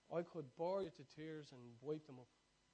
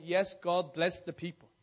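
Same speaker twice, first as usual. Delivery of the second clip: affirming reply; 3 semitones higher, 13 dB louder, slower than usual. Shown as a demonstration. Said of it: "you say".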